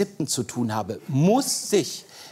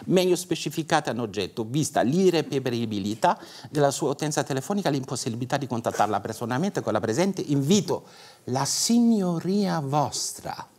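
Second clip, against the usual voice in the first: reading aloud. Shown as a demonstration. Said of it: "da steht also".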